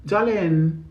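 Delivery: playful New York drawl on "Darling"; New York accent. Shown as a demonstration. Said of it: "I like New York Darling".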